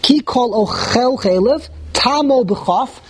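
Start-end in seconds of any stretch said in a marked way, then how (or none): 0.0-1.7 "ochel" as o-KHEL inside "Ki kol ochel chelev"; stress on last syllable. Shown as a demonstration. Teacher reciting the example, "ochel" stressed on the chaf. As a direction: lean hard on the "chel" of "ochel". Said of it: "The emphasis is on the chaf".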